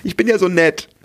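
rushed, fast eager-to-help voice; eager people-pleaser. Retold or imitated. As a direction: babble on like a nice pushover. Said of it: "eine ganz liebevolle". (schnell plappernde, nette Ja-Sagerin)

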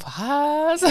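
high startled what, half-laughing; shocked what. Retold or imitated. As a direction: blurt it out in disbelief. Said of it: "wirklich ernst gemeintes".

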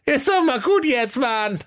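very high, whiny creature voice, fed up; weary Gollum. A narrator's reading. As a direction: grumble it like Gollum. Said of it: "sprach dieser". (hohe, genervte Gollum-Stimme)

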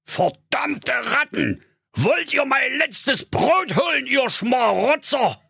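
very high, slow outraged miser voice; high-pitched indignant scolding; angry cry. A narrator's reading. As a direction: cry out at vermin in the cupboard. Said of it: "riss die Türe auf und rief".

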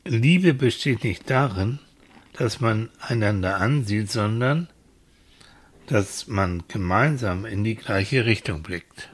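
slow, solemn quoting; quote reading. Acted. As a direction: read it like a poem. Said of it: "Der hat geschrieben". (feierlich vorgelesen)

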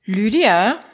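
a hint of a nagging inner voice, whispered at the end; the inner critic, mildly annoyed. Inner voice nags Lydia to finally decide, lightly annoyed whisper. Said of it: "sagt eine genervte Stimme in mir".

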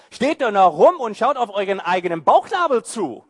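David mocking the cowardly army, laughing and sarcastic; sarcastic retort. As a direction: scoff at the cowards with a grin. Preacher voicing David's sarcastic retort.

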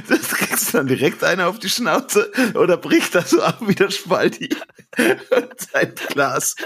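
talking through giggles; words breaking into laughter; stifled giggles. Real, not acted. Giggling while telling. (kichernd erzählen)

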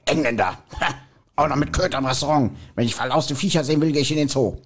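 a hint of a disdainful dubbed villain; mock snooty contempt for the dog; Voldemort voice. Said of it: "Lord Voldemort sagt dann".

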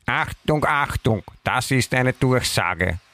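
slow announcer calling attention; announcement voice. Shown as a demonstration. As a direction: call it out like a loudspeaker. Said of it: "man sagt".

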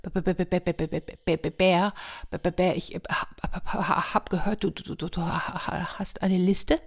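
soft, frightened stutter of a little hare; a shaky hare stuttering in fear; trembling stammer. A narrator's reading. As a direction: stammer every word, scared stiff. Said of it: "die zitterte schon sehr".

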